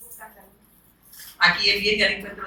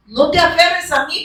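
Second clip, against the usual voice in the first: higher, slow, earnest line as Jesus; voicing Jesus; 7 semitones higher than usual. Jesus telling Mary not to cling to him, high and slow. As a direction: lift the voice and slow down.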